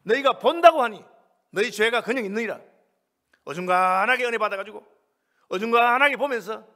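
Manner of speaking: loud, hammering pulpit delivery; emphatic sermon rebuke; forceful preaching. Real, not acted. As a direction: preach it hard, leaning on key words.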